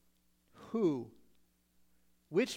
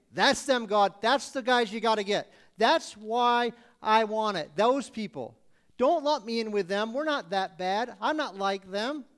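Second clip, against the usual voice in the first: insistent pleading; 4 dB louder than usual. Retold or imitated. Pointing at others, pleading.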